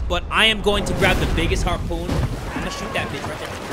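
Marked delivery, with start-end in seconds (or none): 2.1-3.7 hushed unvoiced threat; whispering. Real, not acted. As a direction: whisper like a hunter aiming. Whispering while aiming harpoon.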